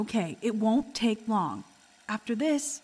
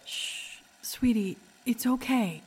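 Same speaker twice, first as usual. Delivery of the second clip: soothing mother; slower than usual. Acted. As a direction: hush them gently, like a mom. Mother soothing strapped child.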